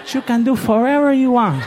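cheering him on with a laugh. Retold or imitated. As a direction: push the line harder, half laughing. Repeated louder with laugh.

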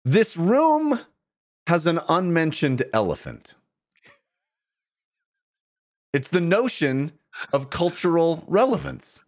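recited like a light poem; limerick. Pretend. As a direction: read it as a playful limerick. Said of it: "in the form of several limericks".

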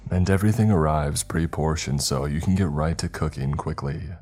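bright sponsor read; upbeat ad read. Acted. Host reading the HelloFresh sponsor spot, upbeat. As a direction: sell it like a friendly ad.

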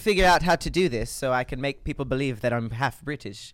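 half-British accent, put on. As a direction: make it pass as half British. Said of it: "That was actually pretty good".

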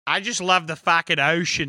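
wobbly mock Aussie; hammed-up Aussie impression; attempted Australian accent. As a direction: try for Australian and land near East Coast. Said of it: "trying to do Australian".

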